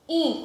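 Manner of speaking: "in" as one nasal vowel "ĩ"; I with tilde. Shown as a demonstration. Teacher showing the first sound of infantil, "in" as nasal "ĩ". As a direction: let "in" ring in the nose, no N closing it. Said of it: "como se tivesse um tio em cima do i".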